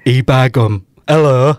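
hammed-up Yorkshire accent. Shown as a demonstration. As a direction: put on a broad mock-Yorkshire voice. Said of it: "you gotta do Yorkshire now".

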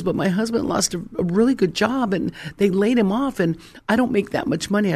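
lightly voiced anxious wife explaining herself; worried wife. Young wife tells her pastor about the layoff, worried. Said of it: "She goes".

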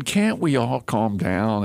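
calm plea. Retold or imitated. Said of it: "a beautiful tweet".

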